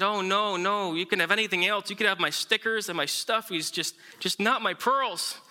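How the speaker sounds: a hint of a child begging to keep her treasure; pleading little girl. Jenny begs Daddy to keep pearls.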